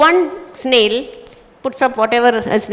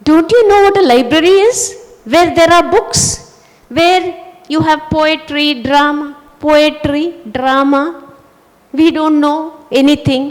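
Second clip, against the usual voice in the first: indignant disbelief; 4 semitones higher than usual. Acted. Old snail shocked at young snails.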